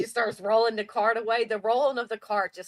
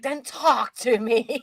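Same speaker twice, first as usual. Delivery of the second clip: slow, drawn-out imitated comeback; retold exasperation, long and pointed; exasperated mock plea; 2 semitones higher, 3 dB louder, much slower than usual. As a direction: stretch each word as the fed-up husband. Acting husband's exasperated comeback.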